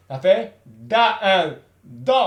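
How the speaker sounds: "Da" and "Do" from the throat, slowly; throat sound. Shown as a demonstration. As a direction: press "Da" from the throat. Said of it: "On utilise la gorge".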